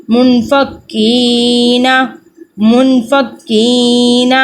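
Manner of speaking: منفکین drawn out slowly; slow recitation. Shown as a demonstration. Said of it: "گننا".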